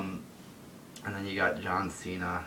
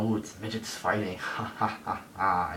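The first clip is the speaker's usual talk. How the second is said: mock Vince laughing. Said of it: "I just see Vince McMahon now obsessed with this".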